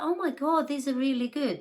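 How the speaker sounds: high, loud and thrilled; delighted kid. Retold or imitated. Boy thrilled at the large pixie stick, excited. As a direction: gush like a kid handed a big treat.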